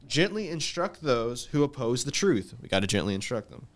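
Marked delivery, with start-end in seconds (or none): 0.1-2.5 scripture reading. Acted. Reads scripture aloud.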